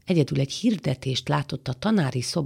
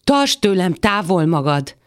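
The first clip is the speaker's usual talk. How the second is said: louder, sharp warding-off cry; mild narrated scream; 3 semitones higher, 6 dB louder than usual. Acted. Woman fending off an embrace, crying out. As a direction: cry out to fend someone off, short of screaming. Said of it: "sikítva azt kiáltotta".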